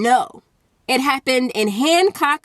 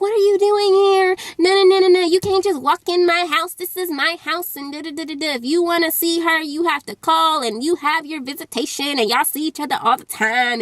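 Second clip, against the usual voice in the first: higher-pitched imitation of a yelling mom; mock yell, pitched up at the start, easing off; retold yelling; 4 semitones higher than usual. Mom telling father off for walking in, retold yelling. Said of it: "you know, she's yelling".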